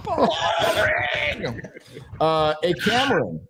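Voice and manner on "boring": high shouted Boring; catchphrase shout. Shown as a demonstration. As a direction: belt it like a slogan. Repeating the catchphrase.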